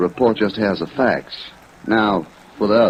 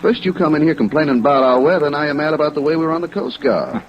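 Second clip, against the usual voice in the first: irritated retort; 6 semitones higher than usual. Acted. Annoyed officer snapping back.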